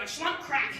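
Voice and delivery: spoken sound effect of bone splitting; imitated cracking noise. Student demonstrating surgery noise to class, imitated crack. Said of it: "it would be like a".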